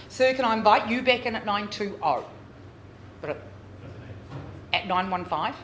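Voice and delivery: rhythmic auctioneer bid calling; auction bid spotter. Real, not acted. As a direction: rattle off the bids like an auctioneer. Live auction calling bids.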